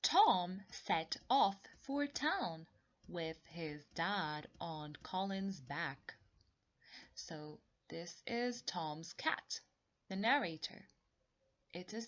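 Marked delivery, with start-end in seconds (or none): 0.0-6.1 slow storybook narration; story reading. Acted. Teacher reading the story to children, slow and clear. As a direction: read it out slowly for the class.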